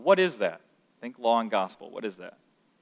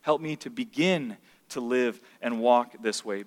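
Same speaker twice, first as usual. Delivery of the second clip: prayer; 2 semitones lower, 3 dB quieter than usual. Retold or imitated. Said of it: "you can say".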